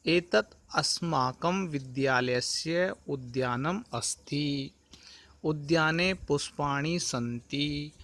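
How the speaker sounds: measured Sanskrit recitation, closing पठामः च slowed; careful Sanskrit recitation. Shown as a demonstration. Teacher models the garden sentences for the class, careful recitation. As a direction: read it out clearly, word by word, as a model. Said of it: "सर्वप्रथम इसका उच्चारण करते हैं".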